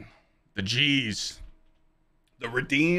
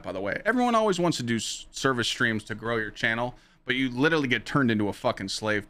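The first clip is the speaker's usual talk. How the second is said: normal talking voice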